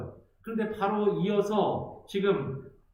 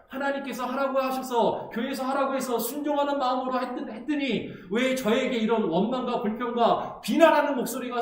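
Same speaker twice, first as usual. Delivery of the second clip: believer's complaint to God. Retold or imitated. Pastor voicing a believer's grumbling prayer, rising to a cry. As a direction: whine to God about unwanted duties. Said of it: "그럼 우리에게 이런 마음이 있잖아요".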